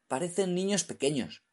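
a lightly voiced scared mumble; mumbled. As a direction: stammer it out in fright. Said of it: "farfulló el cingalés".

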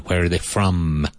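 "from" ending on a strong held M. Shown as a demonstration. Teacher showing students the strong M in "from". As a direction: press the M of "from" firmly shut. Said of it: "With that strong M".

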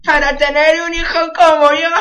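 put-on cocky Argentine son, lightly accented. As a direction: deliver the punchline in a hammed-up Argentine accent. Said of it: "qué bien imito el acento".

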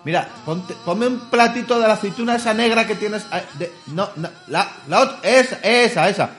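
calling out to the bartender in a high put-on voice; llamando al camarero. Llamando al camarero del bar. (pidiendo aceitunas al camarero Paco, voz aguda de cliente de bar)

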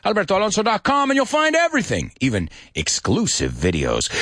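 quick, upbeat self-promo plug; fast promo read. Acted. Host plugging his channels to viewers, quick ad read. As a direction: rattle off the socials like an ad.

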